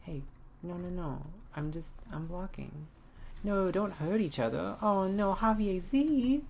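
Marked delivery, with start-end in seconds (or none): 3.4-6.4 alarmed shout. Real, not acted. Alarmed cry at game.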